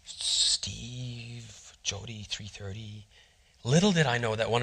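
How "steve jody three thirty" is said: puzzled reading aloud. Retold or imitated. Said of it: "she goes".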